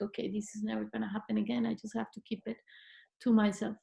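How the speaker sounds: quick quiet resignation; resigned murmur. Retold or imitated. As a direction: mutter it to yourself. Resigned private vow.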